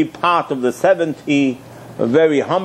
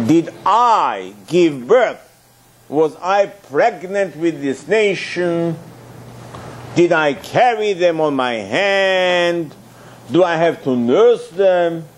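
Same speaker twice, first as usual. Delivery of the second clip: slow, drawn-out plea of a weary leader; Moshe's lament; 2 semitones higher, slower than usual. Acted. Moshe pleading with God, slow weary lament. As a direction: drag each question out like a burdened man pleading.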